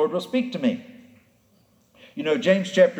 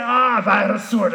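angry shout; 3 semitones higher, 3 dB louder than usual. Retold or imitated. Balaam raging at the donkey.

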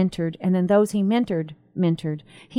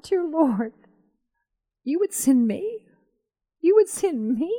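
awed disbelief; 8 semitones higher than usual. Retold or imitated. Retold awed prayer.

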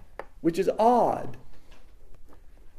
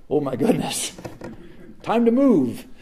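surprised; 3 semitones lower than usual. Pretend. Tipsy host sees dishes.

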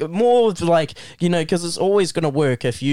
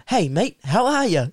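higher, matey mock hello; casual greeting; 6 semitones higher than usual. Boys telling the new kid how to greet, chummy. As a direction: act out a chummy greeting for a dare.

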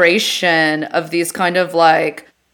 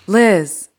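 lightly voiced automated program; slower than usual. Comic redoing the bit for laughing co-host, automated program voice. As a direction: separate each word like a system prompt. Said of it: "I really think I should do voice work".

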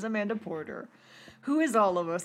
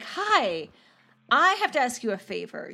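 upbeat; 3 semitones higher than usual. Retold or imitated. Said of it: "she's very upbeat".

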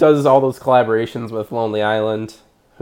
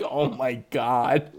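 exasperated; 7 dB quieter, much slower than usual. Retold or imitated. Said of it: "And I'm like".

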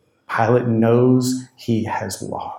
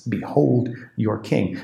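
mocking; slower than usual. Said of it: "he's mocking them".

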